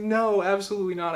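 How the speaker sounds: high, loud frantic no; hammed-up panicked no; panicked refusal.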